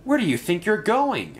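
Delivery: lightly voiced diesel blocking the way; sneering diesel question; diesel engine. A narrator's reading.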